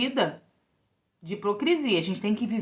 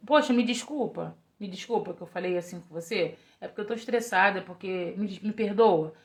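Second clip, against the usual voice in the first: gentle, softer apologetic plea; a wife softly apologizing to her husband after snapping; soft apology; 4 semitones lower, 5 dB quieter than usual. Retold or imitated. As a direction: replay saying sorry to her husband, tenderly.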